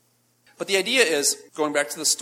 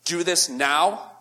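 demanding boss. Retold or imitated. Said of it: "your boss comes in and says".

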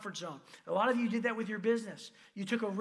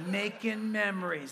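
louder, laughing through the words; laughing coax; 4 dB louder, slower than usual. Retold or imitated. Friend urging Chris, now laughing and louder. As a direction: sell it with a grin and a laugh. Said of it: "He goes".

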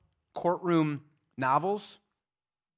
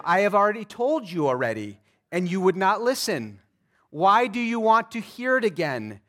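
louder, exasperated sarcastic retort; sarcastic reply; 3 semitones higher, 5 dB louder than usual. Acted. Healed man retorting to the Pharisees, loud and sarcastic. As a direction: throw it back at them, fed up. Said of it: "See the sarcasm, the irony".

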